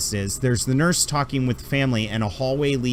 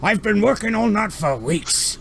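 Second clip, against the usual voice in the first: much higher, fussy put-upon doctor voice; grumpy alien doctor; 9 semitones higher than usual. Acted. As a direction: huff like an overworked old doctor. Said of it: "he's like".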